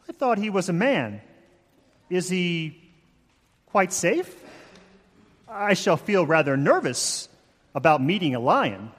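mildly nervous girl in a put-on English accent; hesitant, lightly voiced English accent. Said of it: "my horrible English accent".

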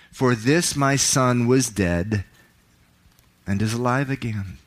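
dramatic Bible reading, voicing the characters; scripture reading. Pastor to congregation, dramatic scripture reading. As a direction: read the parable with feeling, rising for the son's pleas. Preacher reads the prodigal son.

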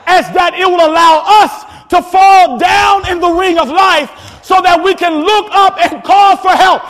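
rising, shouted pulpit preaching that hammers each point; full-force preaching. Acted. Preacher corrects congregation's belief.

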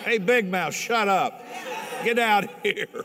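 high, loud rebuke of the devil; preacher shouting down the devil; rebuking the devil. Shown as a demonstration. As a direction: tell the devil off hard. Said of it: "You call him Big Mouth if you want".

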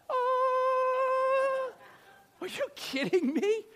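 high held "ah" of disbelief; stunned and incredulous, played up; drawn-out high wail into a baffled question; mock disbelief. Reacts to huge memorization task.

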